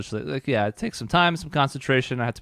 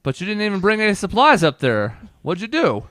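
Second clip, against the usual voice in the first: a bit skeptical; 9 semitones higher, 4 dB louder than usual. Acted. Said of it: "It almost sounds just a little bit skeptical".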